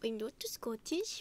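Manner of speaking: slow mock-Scottish echo; mimicked Scottish accent. Friend echoing the denial, mock-Scottish accent. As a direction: parrot it in a dubious Scottish accent.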